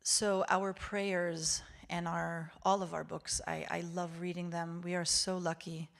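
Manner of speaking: normal talking voice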